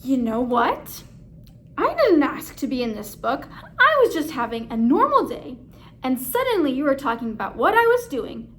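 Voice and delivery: a grumpy alligator tells the narrator off; annoyed Snapsy. Acted.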